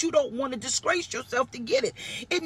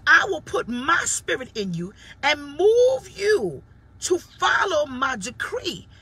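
tearful preaching cry; 3 semitones higher, 4 dB louder, slower than usual. Acted. Preacher voices God, voice cracking.

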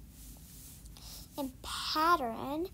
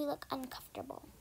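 whisper; 6 dB quieter than usual. Real, not acted.

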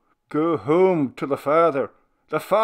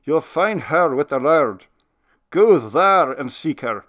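tender; 5 semitones higher, 8 dB louder than usual. Acted. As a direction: still loud, higher, but gentler and pleading old minister. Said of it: "the loud tones of his voice sank into tenderness".

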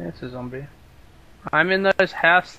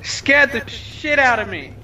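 startled; 7 semitones higher than usual. Real, not acted. Startled by sneaking player.

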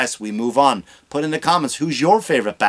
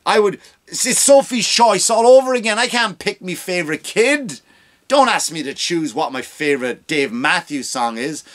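mock eager guy; 4 semitones higher, 3 dB louder than usual. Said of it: "That's the vibe".

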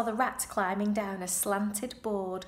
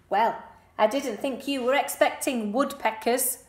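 bitter; 3 semitones higher, 6 dB louder than usual. Acted. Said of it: "said Wilbur bitterly".

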